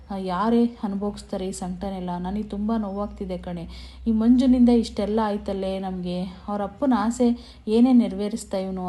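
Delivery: mock lament with emphatic bursts; storyteller's lightly acted grieving mother; retold anguished lament. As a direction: voice a mother's distress, leaning into key words. Mother laments her lost honour.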